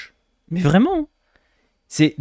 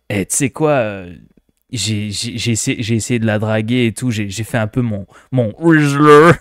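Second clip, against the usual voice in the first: mock Québécois accent; 3 semitones lower than usual. Shown as a demonstration. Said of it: "on va le faire un québécois".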